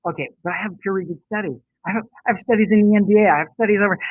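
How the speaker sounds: quick, lightly put-on voice rattling off proof; self-quoting a confident rebuttal. Telling the host how she answers skeptics, rapid and breezy. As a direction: brush off the doubters by listing studies fast. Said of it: "I'm like".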